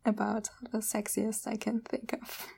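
soft whisper. Real, not acted. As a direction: breathe it out. Whispering joke.

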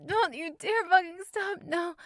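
high, loud, rushed demand; urgent high pleading; quick urgent demand. Acted. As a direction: spit it out fast and urgent. Demanding during climax.

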